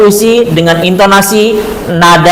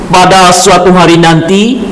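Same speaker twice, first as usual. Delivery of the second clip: "Pada Suatu Hari Nanti" read with lifted, rising intonation; raised intonation. Shown as a demonstration. Teacher demonstrating raised intonation to class. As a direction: lift the title as you announce it.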